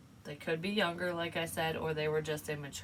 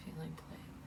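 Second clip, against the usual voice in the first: "Feeling played" repeated much softer, fading away; soft echo; 12 dB quieter than usual. Shown as a demonstration. Tarot reader echoing "Feeling played" to herself, much softer. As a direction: let "Feeling played" fall to a near hush.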